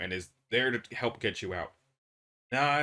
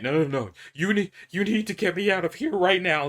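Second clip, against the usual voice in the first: loud, higher desperate demand; frantic; 4 semitones higher, 6 dB louder than usual. Acted. Trapped man screams at the doctor to get him out now. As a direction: shout it like the walls are closing in.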